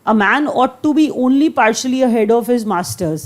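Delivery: reads the English sentence very slowly, word by word; slow dictation reading. Shown as a demonstration. Teacher reading an example sentence to students, slow dictation.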